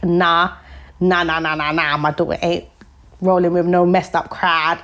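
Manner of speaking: a hint of a stern African mum; lightly voiced African mother, scolding; African accent. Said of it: "Obviously with an Af accent".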